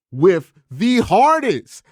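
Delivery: usual speaking voice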